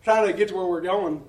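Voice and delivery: loud, high, laughing through it; breathless laughter at his own exhaustion. Real, not acted. Telling the church how tired he was, laughing loudly. Laughing about nearly collapsing.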